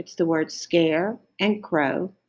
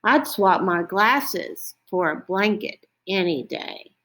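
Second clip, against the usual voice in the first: a hint of a sleepless owl, slightly raised pitch; lightly voiced owl; 3 semitones higher than usual. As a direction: lightly play a put-out storybook owl.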